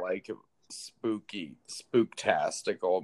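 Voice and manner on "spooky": a little eerie whisper; spooky whisper. Pretend. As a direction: breathe the word spooky in a ghostly whisper. Spooky movie vibe whispered.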